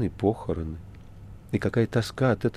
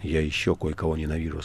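сквозь зубы; 3 semitones lower than usual. Acted. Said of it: "сквозь зубы ответила".

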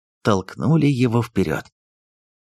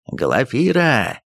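yelling name; 3 semitones higher, much slower than usual. Acted. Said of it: "орал Устюгов".

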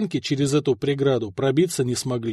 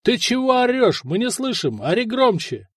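raised, high-pitched calling voice; calling back; 7 semitones higher than usual. A narrator's reading. Camp soldiers who can't hear the man on the tower, calling. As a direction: call up as if you can barely hear. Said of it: "заорали из лагеря".

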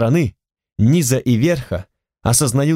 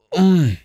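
rasping groan; 7 semitones higher than usual. Acted. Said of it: "Хрип".

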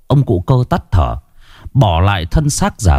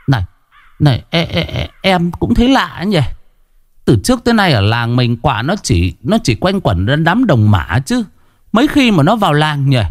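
higher, hesitant stammering gossip; rising unease, almost disbelieving; uneasy villager; 7 semitones higher than usual. A narrator's reading. Another mourner answering about the crows, uneasy. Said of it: "có vài người rì rầm bàn tán".

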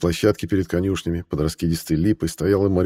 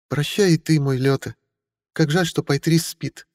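countess voice; 9 semitones higher than usual. A narrator's reading. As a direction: say goodbye with a sigh. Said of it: "говорила Мариэль".

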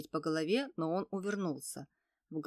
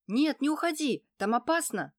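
higher, louder call after a runaway; 7 semitones higher, 6 dB louder than usual. A narrator's reading. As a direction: shout after him, afraid. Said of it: "закричала вдогонку". (кричит вслед убегающему сыну)

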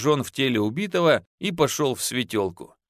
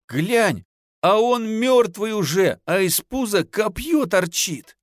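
terrified wailing; 6 semitones higher than usual. A narrator's reading. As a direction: beg in terror, voice up high. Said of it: "бросился на колени и заголосил".

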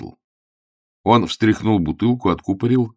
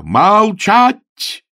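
very high, loud bark; bellowed order; 13 semitones higher, 8 dB louder than usual. Acted. Augustine yells at the landlady to be silent. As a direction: shut her up with a yell. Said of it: "заорал Августин".

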